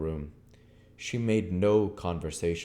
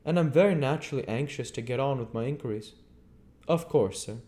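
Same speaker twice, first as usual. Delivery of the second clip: higher, lively innkeeper's wife; landlady voice; 8 semitones higher, 4 dB louder, faster than usual. Acted. Landlady asking the guest's leave, higher voice. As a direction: voice Mrs Hall, pitched up and eager.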